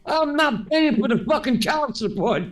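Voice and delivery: imitating an exasperated prank victim; mock losing it. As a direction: act out a man losing his mind. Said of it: "he's losing his mind".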